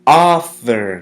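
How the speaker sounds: "Author" with a loud, punched AU; stress on first syllable. Shown as a demonstration. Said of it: "The emphasis is placed on the first syllable".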